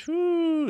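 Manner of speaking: high, loud "whoo"; high excited whoop. Real, not acted. Gamer seeing his new hand, excited whoop. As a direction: let out a high-pitched whoop.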